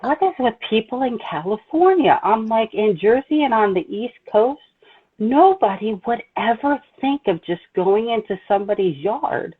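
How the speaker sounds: high, indignant rant; fed up with California manners; salty. Retold or imitated. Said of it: "I'm getting salty".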